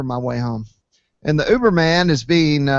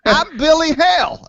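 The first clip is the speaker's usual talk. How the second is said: much higher and louder; excited reveal; 13 semitones higher, 5 dB louder than usual. Retold or imitated. Telling the driver who he is, excited and high. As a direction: announce it gleefully.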